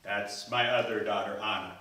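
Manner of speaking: resigned sigh. Acted. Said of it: "he kind of sighed".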